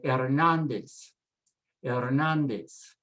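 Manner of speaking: Hernandez the Spanish way, silent H, final Z as S; Spanish pronunciation. Shown as a demonstration. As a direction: say Hernandez slowly as er-NAN-des, stressed on NAN. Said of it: "always pronounced S, never a Z sound".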